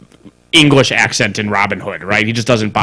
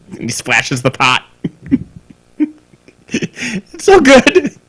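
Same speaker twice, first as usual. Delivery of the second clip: ordinary talk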